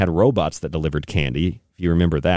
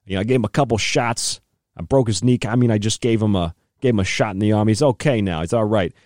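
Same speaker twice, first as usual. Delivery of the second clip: mock Fauci; 3 semitones higher than usual. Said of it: "you listen to how he says it".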